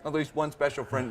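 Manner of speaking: chuckling through the words; amused laugh while repeating it. Real, not acted. Echoing a joke, laughing.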